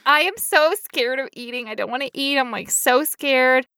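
hammed-up fear; mock scared. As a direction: play up the dread, drawing out the last words. Acts someone scared of eating.

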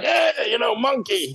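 put-on high shouted greeting to the children; playful call to kids. Chief calling to the children on the path, high playful shout. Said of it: "He's like".

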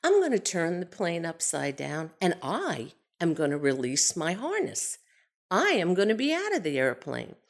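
even, steady, unhurried calm; a pilot stating facts with a straight face. Retold or imitated. Pilot Bill explaining the bail-out plan to Irma, dead calm. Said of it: "the most calm tone".

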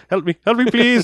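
hammed-up German cry, very high; bad German accent. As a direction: squeal it like a cartoon German drowning. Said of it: "doing a really bad, you know, German accent".

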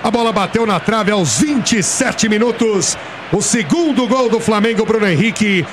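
breathless radio goal call; explosive goal commentary. Retold or imitated. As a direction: ride the goal excitement, shouting the replay. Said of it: "narrou com essa alegria medonha".

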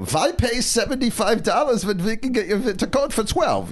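high mock dad voice; thrifty dad. Father at a discount shop, high mock voice. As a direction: scoff at the price like a cheap father.

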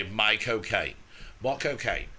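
Michael Caine warm-up. Shown as a demonstration. Teaching his friend the Michael Caine warm-up, lightly voiced. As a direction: repeat My cocaine to find Caine's voice. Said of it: "they always say is just say".

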